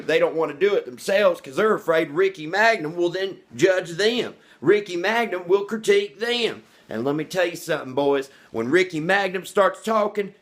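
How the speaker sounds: self-hyping sermon, building high then settling at the end; worked-up preacher. Real, not acted. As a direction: get carried away like a preacher. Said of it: "I feel like a preacher".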